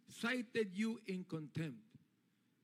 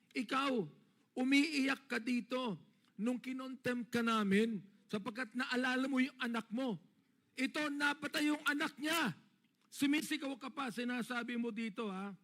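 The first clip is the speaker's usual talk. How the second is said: raised, pressing rebuke to a witness; heated scolding; 2 semitones higher than usual. Real, not acted. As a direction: scold her hard but claim you're not angry. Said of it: "Hindi ako nagagalit sa'yo. Dynamic lang ako".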